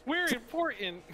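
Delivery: smug. Retold or imitated.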